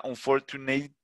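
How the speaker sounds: "unfortunate" stretched out with a long hissed final t; odd over-drawn word. Shown as a demonstration. Teacher mocking an odd form for students, exaggerated "unfortunate". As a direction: make "unfortunate" sound odd by drawing out its ending. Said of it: "que sonaría súper raro".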